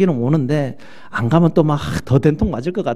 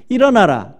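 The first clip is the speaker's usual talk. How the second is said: a firm, raised 일어나라 as a solemn call; God's command; 6 semitones higher, 4 dB louder than usual. Retold or imitated. God commanding Jonah to rise, firm solemn call. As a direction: give 일어나라 as a calm divine order, less yelled. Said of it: "하나님이 요나에게 뭐라 그랬냐면".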